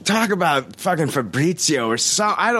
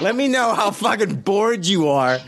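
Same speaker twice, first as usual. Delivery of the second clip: sarcastic; 5 semitones higher than usual. Real, not acted. Sarcastic rant at yawning cohost.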